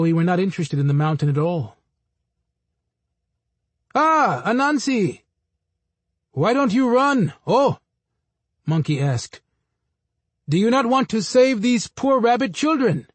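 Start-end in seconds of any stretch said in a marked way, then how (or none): 3.9-7.8 lifted, sing-song monkey voice, slow on the ah; a cheeky monkey calling down to the spider; high teasing monkey. A narrator's reading. Monkey teasing Anansi about the race, in a high mocking voice. 10.5-13.1 high monkey voice. A narrator's reading. Monkey taunting Anansi.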